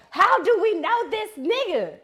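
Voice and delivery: high, loud mock panic; comic frantic scramble for a memory; frantic inner voice. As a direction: wail it like a panicked cartoon brain. My mind is like SpongeBob pulling out.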